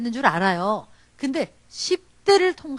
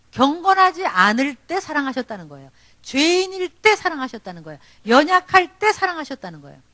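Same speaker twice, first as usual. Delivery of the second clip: emphatic preaching. Acted. Preaching emphatic parallel lines.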